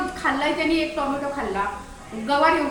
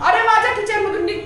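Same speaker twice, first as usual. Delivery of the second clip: scolding; 6 semitones higher, 3 dB louder than usual. Pretend. Orders dog out of kitchen.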